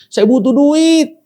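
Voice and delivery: pleading. Retold or imitated. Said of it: "saya bilang".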